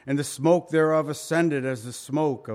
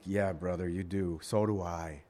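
lower, softer reply to a brother; hushed agreement; 9 semitones lower, 8 dB quieter than usual. Retold or imitated. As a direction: murmur it back to him in agreement. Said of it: "I'm like".

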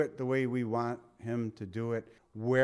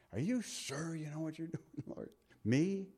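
soft, chuckling, are you sure Lord; preacher laughing in amazement that God uses him; laughing disbelief; 2 semitones higher, 9 dB quieter than usual. Retold or imitated. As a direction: laugh at being chosen. Self-doubting prayer, laughing.

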